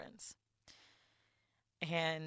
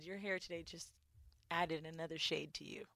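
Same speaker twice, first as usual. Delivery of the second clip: retold hushed coworker; 10 dB quieter than usual. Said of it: "she said".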